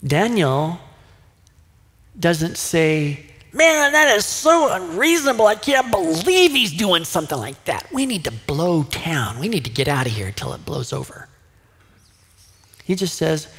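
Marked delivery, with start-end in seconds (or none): 3.5-11.3 panicked rant that trails off fast; flipping out. Pretend. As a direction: panicky outburst that fades to a hurried mutter. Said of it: "But Daniel doesn't flip out".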